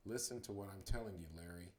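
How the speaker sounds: fast words forced through clenched teeth; through gritted teeth. Acted. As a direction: grit your teeth and press it out. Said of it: "through gritted teeth".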